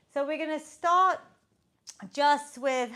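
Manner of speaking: breathless after a sprint; talking while catching breath. Real, not acted. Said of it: "I'm so out of breath there".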